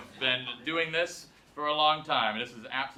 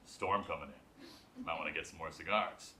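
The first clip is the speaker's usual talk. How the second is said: imitating tobacconist; 11 semitones lower, 12 dB quieter than usual. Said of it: "he's like".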